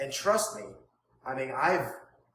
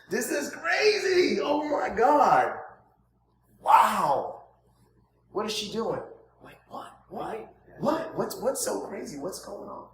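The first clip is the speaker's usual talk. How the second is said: shouted, much higher, slowed disbelief; over-the-top amazement; 6 semitones higher, 5 dB louder than usual. Shown as a demonstration. Coach hamming up shock at a real estate agent, shouting. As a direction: act like it's the craziest news ever. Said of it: "it's creating emotion and curiosity".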